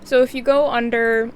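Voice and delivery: talking through a mouthful of food; words round a bite of food; mouth full. Real, not acted. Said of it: "my mouth is full of food".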